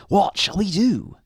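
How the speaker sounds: high, loud troubled husband; exaggerated high-pitched worry; Mister Grinling. A narrator's reading. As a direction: ask it as a flustered storybook husband. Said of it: "said Mister Grinling".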